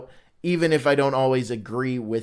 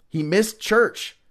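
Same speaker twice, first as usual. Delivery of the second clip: mock scolding; 5 semitones higher, 4 dB louder, slower than usual. Scolding Thomas playfully.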